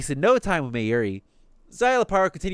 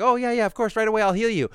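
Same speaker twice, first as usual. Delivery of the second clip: high-pitched, flustered willingness; retold eager agreement; 7 semitones higher than usual. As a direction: play her hurrying to oblige. Eager helper voiced in retelling.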